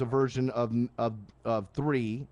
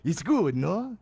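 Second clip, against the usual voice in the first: lightly voiced Triumph, rising mock question; a hint of the puppet dog's accented jab; Triumph the insult comic dog; much slower than usual. Showing how Triumph the insult dog would tease, lightly voiced. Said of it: "like Triumph, the insult comic dog".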